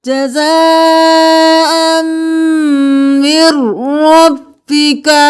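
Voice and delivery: slow, melodic tajweed chanting; Quran recitation. Acted. Teacher chanting the verses for students, melodic recitation. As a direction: intone each verse with care.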